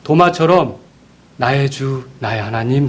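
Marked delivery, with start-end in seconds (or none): 1.4-2.9 reverent confession. Retold or imitated. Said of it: "그랬어야 돼요".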